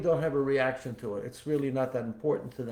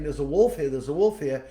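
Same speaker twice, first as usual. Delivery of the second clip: mild mock scream; 4 dB louder than usual. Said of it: "he's really screaming his head up".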